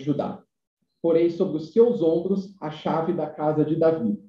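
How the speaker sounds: slow, measured reading of scripture; solemn scripture reading. Acted. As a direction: read it out like a lector at the pulpit. Reads Isaiah passage aloud.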